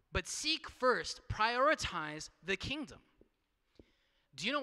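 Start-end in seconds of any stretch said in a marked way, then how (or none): 0.1-3.0 slow emphasis. Real, not acted. Preacher landing the main point.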